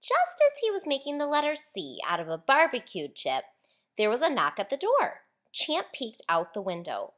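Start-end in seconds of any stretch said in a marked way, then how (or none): none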